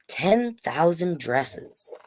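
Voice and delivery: slow, hushed reveal of the title; whispered title for the kids. Acted. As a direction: breathe the title like a secret.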